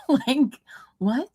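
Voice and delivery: a burst of high laughter into a bewildered "what?"; laughing in disbelief. Real, not acted. Mocking the witness's claim, laughing in disbelief. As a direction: laugh it off, baffled.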